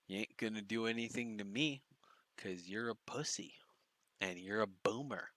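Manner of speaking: soft, deliberate goading with long pauses; mocking taunt. Real, not acted. Commentator taunts the man in clip.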